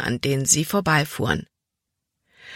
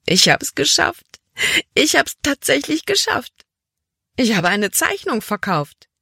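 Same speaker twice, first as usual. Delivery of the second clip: hoch und jubelnd, fast überschlagend; platzt vor Freude; 8 semitones higher than usual. A narrator's reading. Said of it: "platzte Libby beinahe vor Freude". (jubelnd, deutlich höher, vor Freude überschäumend)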